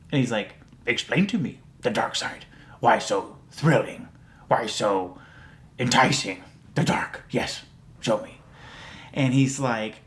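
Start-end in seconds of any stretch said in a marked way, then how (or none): 0.9-8.4 creepy Yoda voice. Retold or imitated. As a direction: tease him toward the dark, half whispered. Yoda tempting voice, retold.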